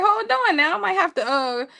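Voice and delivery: high, excited gasp of interest; hammed-up swoon at the men. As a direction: act dazzled and thrown. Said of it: "I was like".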